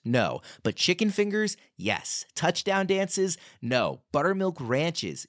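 lively scripted commercial read with question-and-answer swings; punchy sponsor read, questions lifted, answers dropped. Real, not acted. Host pitching game day food delivery to listeners, upbeat ad read.

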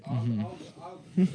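loud laughing stammer; laughing loudly. Real, not acted. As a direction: crack up while trying to speak.

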